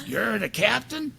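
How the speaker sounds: high, drawn-out incredulous question; scornful disbelief. Retold or imitated. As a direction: mimic an old lady doubting his rank. Old lady challenges the captain.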